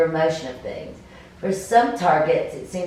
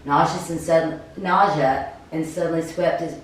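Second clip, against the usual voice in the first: game master narration; 2 semitones lower than usual. Acted. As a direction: paint the scene, unhurried.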